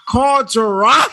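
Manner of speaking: laughing gleefully; giggling with glee. Real, not acted. Gleeful laughing at rival's failure.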